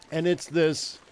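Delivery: ordinary delivery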